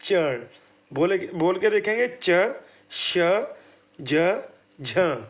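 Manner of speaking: च श ज झ said slowly, one by one; palatal sounds demo. Shown as a demonstration. Teacher demonstrating palatal consonants for students. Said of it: "जैसे ये देखेंगे".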